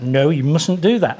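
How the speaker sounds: a slowed, mock-stern No you mustn't do that. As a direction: pretend to scold a toddler. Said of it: "we do the faces like".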